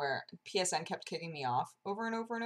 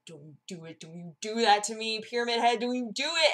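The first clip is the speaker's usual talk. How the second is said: urgent plea building higher and louder; retold nervous pleading; 4 semitones higher, 3 dB louder than usual. Pleading with Pyramid Head in the haunt, mock panic.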